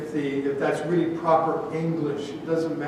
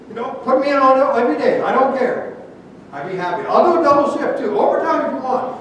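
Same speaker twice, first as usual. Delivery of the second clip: higher, louder eager pleading; volunteer keenly, voice lifted; 5 semitones higher, 4 dB louder, faster than usual. Acted. Second guard begging supervisor for shifts with Paul, eager.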